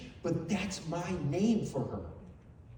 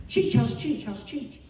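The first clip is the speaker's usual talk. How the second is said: high, eager repeated asking; imitated eager friend; 6 semitones higher, 4 dB louder than usual. Imitating his friend asking after the granddaughter, excited and eager. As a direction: fire off the question like an excited friend. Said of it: "and he'd go".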